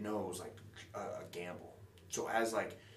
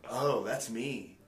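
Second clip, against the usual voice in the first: louder, slow, stunned delight; amazed realization; 4 semitones higher, 10 dB louder, much slower than usual. Retold or imitated. At the bar seeing his own face on TV, stunned and delighted. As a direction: let it land slowly, amazed.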